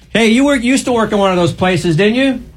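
very high-pitched shouted yell. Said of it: "Why are you yelling at me?".

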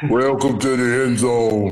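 forced, attempted deep bass voice. Signing off the m zone for everyone, the speaker says it putting bass in voice. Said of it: "I'm trying to put some bass in my voice".

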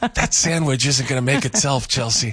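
whispering. Showing the whispering method instead of raising the voice: whispering. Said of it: "that's why I whispered".

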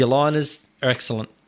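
plain

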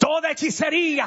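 forceful, shouted delivery.

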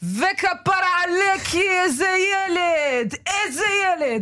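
very high pitched voice with Moroccan accent. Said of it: "זה מרוקאית של שלום הסייג".

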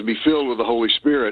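ordinary talk, nothing marked

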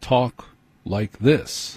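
very slow, measured radio anchor voice.

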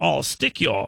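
botched British accent slipping into Australian. Mocking how British people sound, slipping into an Australian accent. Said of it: "I sound like an Australia guy".

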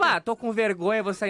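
ordinary delivery

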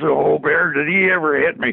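kind of growled, half-growled exclamation. A speaker retells what Mike said when he grabbed him on the ice, retelling a growled line. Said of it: "kind of growls".

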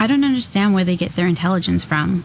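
ordinary talk, nothing marked

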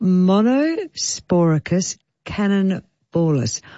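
very slow, deliberate, sounded out word by word. Naming a newly detected plant disease for everyone, said very slowly. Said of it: "I will say it very slowly".

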